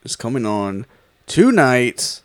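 stiff robot voice. Acted. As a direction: deliver it like a robot. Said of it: "Why are you talking like a robot?".

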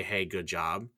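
a soft, sincere hey good job; genuine praise. Retold or imitated. A genuine coworker giving soft, sincere praise. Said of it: "people that will genuinely, like, say".

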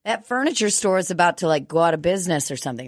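startled realization, rushing on; mock surprise; surprised. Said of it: "And I was like".

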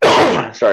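coughing then apologizing; a rough cough before the words; chesty cough. Real, not acted. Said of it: "I'm coughing this morning".

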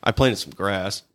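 a hint of British Connery drawl; Sean Connery British accent. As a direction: quote the line like a mild Sean Connery. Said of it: "I kinda went Sean Connery with it".

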